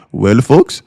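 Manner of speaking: a light, mock Indian accent; imitating an Indian accent. A mentor answering "is it worth it", quoted in a light Indian accent. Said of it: "in his Indian voice".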